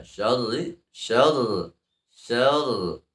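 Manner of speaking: held rolled r in syarr; doubled ra in syarri. Shown as a demonstration. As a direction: hold and roll the r of syarri. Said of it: "ra-nya di sana ada, ada tasdid". (ra bertasydid pada syarri)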